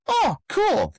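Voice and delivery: high mock reaction. Mock-casual reaction to coin.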